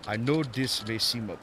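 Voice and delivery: put-on botched Japanese accent sliding toward Australian; accidentally Australian accent. Old master making an offer, accent slipping toward Australian. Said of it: "going Australian or something with it".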